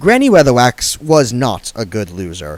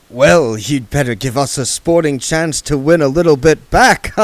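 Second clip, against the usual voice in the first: oily card sharp talking down; Mister Frank's voice; 5 semitones higher, 4 dB louder than usual. Acted.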